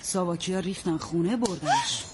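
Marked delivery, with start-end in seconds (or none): 1.4-2.0 hushed, breathy whisper of the arrest; whispered news. Acted. Neighbor whispering to the daughter that they took him, hushed. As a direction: drop to a whisper on the last word. Breaking bad news quietly.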